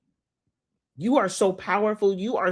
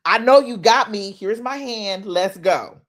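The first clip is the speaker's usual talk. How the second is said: firm, louder "I know you got me" with the stress on "know"; confident faith; 3 semitones higher, 4 dB louder than usual. Shown as a demonstration. Showing the right way to pray, declaring "I know you got me" confidently. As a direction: say it sure of the answer. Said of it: "It has to be".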